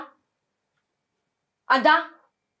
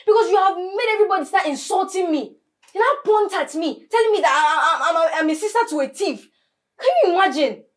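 angry scolding; 3 semitones higher than usual. Acted. Sister berating thief sister.

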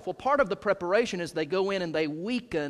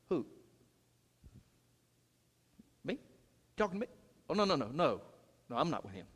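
nervous denial; 8 dB quieter, much faster than usual. Acted. Peter's denial voiced.

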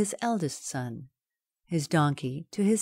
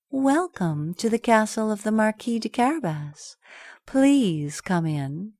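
cat's welcome; 4 semitones higher than usual. Acted. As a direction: welcome him with a bow. Cat welcomes king.

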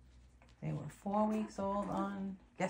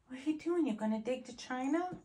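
lightly sing-song puppy talk; pet talk; 6 semitones higher than usual. Real, not acted. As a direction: tease the puppy gently, up high. Talking to puppy.

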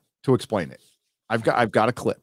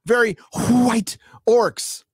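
mock crowd; 11 semitones higher than usual. Mocking the villagers cheering to surrender, high and dopey. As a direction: cheer it like a dim mob, pitched way up. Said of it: "And everybody went".

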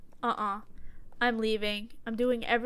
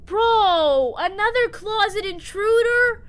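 raised, incredulous outburst; shocked disbelief; 8 semitones higher, 5 dB louder than usual. Real, not acted. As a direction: cry out high in exasperated disbelief. Jump scare by game intruder.

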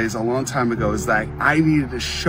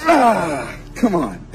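effortful strain; 3 semitones higher, much slower than usual. Real, not acted. Man straining to rip phone books, effortful groan.

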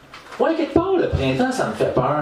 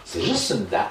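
deadpan; 10 semitones lower, 4 dB quieter than usual. Retold or imitated. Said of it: "je suis comme".

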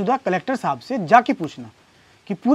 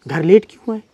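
rapid-fire questions, building louder and higher; mock nagging wife; 4 semitones higher, 5 dB louder, faster than usual. Husband mimics his wife's list of complaints, mock nagging. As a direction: imitate a wife's interrogation, ending loud and high. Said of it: "पत्नी के पास पति को सुनाने के लिए मुद्दे ही मुद्दे हैं".

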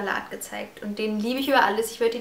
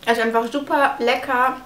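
talking with a mouth full; chewing between words; 3 dB louder than usual. Real, not acted. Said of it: "Entschuldigt, dass ich mit vollem Mund spreche".

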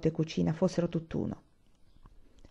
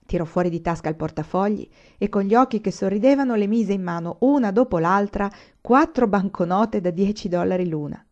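plain reading voice

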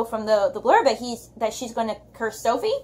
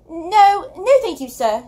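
higher, louder breathless refusal; gasped; 5 semitones higher, 4 dB louder, slower than usual. Acted. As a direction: blurt out no, thank you as if fleeing in panic. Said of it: "she gasped and fled away".

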